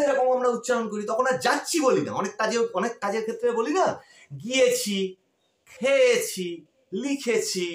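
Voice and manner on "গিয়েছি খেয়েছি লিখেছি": গিয়েছি, খেয়েছি, লিখেছি higher, each set apart; stressed verb endings. Shown as a demonstration. Teacher listing perfect-tense examples, গিয়েছি, খেয়েছি, লিখেছি raised and spaced. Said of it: "এই এছি কথাটা".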